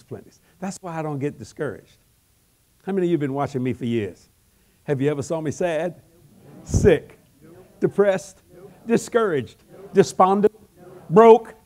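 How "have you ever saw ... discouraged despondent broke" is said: stack them, climb, then shout broke; building list to a shout. Acted. Building list, ending high.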